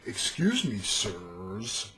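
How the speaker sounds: slow, measured, chest-puffed address; self-righteous paladin taking his time. Acted. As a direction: confront them formally with chest out. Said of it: "chest puffed out and shit".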